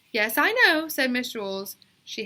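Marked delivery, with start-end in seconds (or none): 0.1-0.9 put-on girl's insistent voice. A narrator's reading. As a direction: draw out the yes like a stubborn kid. Teacher and girl exchange.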